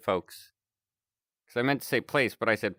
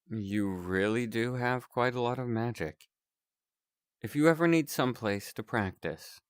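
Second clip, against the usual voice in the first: a courteous circus ringleader; 5 dB quieter than usual. Acted. Ringleader character again.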